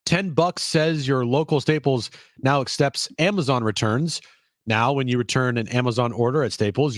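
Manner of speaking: upbeat commercial read. Acted. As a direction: sell it like a radio spot. Recorded ad read.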